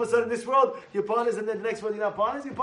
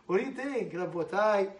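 ordinary talk, nothing marked

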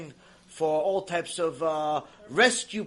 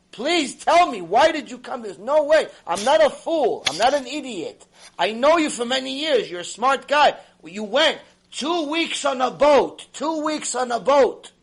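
urgent raised pleading; breaking down pleading; 4 semitones higher, 5 dB louder than usual. Retold or imitated. Man begging the rabbi to explain his journey, urgent. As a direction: press him, begging to know why. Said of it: "breaking down".

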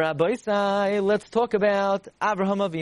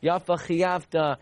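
slow, humble praise; accepting praise; slower than usual. Retold or imitated. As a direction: say it slowly, accepting judgment. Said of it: "They say".

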